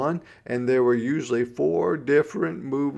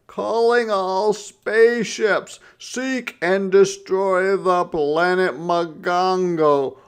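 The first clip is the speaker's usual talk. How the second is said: roaring villain; 7 semitones higher, 7 dB louder than usual. A narrator's reading. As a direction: boom it out like a cartoon tyrant. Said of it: "roared or yelled Brother".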